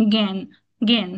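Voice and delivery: জ্ঞান begun with a single g, "gyan"; g sound. Shown as a demonstration. Teacher showing word-initial rule, g sound in জ্ঞান. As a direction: say জ্ঞান as "gen", not with j. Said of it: "উচ্চারণটা অনেকটা গ এর মতো হয়".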